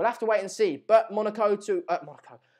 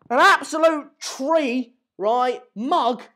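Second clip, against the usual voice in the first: gleeful insult; 5 semitones higher, 6 dB louder, much slower than usual. Real, not acted.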